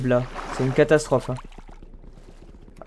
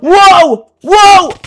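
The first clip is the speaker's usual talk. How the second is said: surprised wow; 10 semitones higher, 8 dB louder than usual. Real, not acted. Startled by spider in game.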